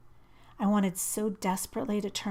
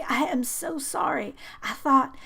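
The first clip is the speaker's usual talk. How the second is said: panicked apology; 7 semitones higher, 7 dB louder than usual. A narrator's reading.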